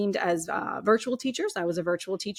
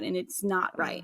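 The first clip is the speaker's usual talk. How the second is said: whispered, slower, barely voiced; real hushed whisper; 6 dB quieter than usual. Real, not acted. Telling the host of unbearable pain, real hushed whisper. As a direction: let it fall to a breathless whisper. Recalling suicidal pain, voice drops.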